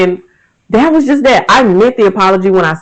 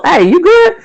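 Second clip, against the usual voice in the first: much higher, light checking-in question; a friend asking if you're okay, lightly voiced; concerned friend; 11 semitones higher than usual. Friend checking on a grown man, lightly voiced concern. Voicing someone checking on adult.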